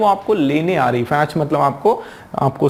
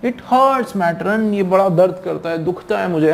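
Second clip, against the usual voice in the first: mock whimpering complaint; 3 semitones higher than usual. Schoolboy faking a stomach ache to the matron, mock whimpering. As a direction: play up the hurt, mildly tearful. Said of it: "रोने जैसा मुंह किया".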